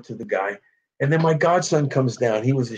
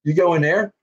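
put-on Philly accent; 2 semitones higher than usual. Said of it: "Philadelphia accents".

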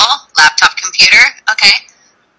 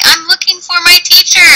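model sentence; 8 semitones higher than usual. Shown as a demonstration.

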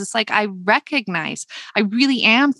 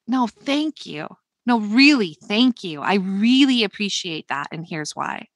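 sincere thanks. Shown as a demonstration. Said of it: "instead of just being like".

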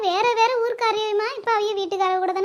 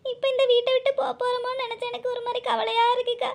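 weepy bride confessing her sorrow; acted plaintive crying voice; tearful; 3 dB quieter than usual. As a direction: pour out the worry of leaving home, close to sobbing. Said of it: "இதுக்கா இப்படி ஏங்கல் எடுத்து அழுகுற".

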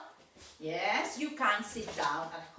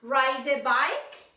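exaggerated question; 3 semitones higher, 6 dB louder, much slower than usual. Shown as a demonstration. Teacher models question. (pregunta exagerada, can you agudo)

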